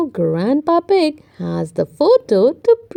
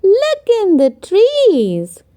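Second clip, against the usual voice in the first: higher pointing voice; Peppa; 7 semitones higher, 4 dB louder than usual. Acted. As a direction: urge him to look up. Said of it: "says Peppa".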